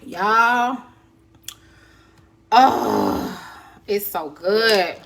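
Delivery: talking through a hot bite; mouth full of hot food. Real, not acted. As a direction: mouth on fire, chewing. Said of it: "my mouth is on fire".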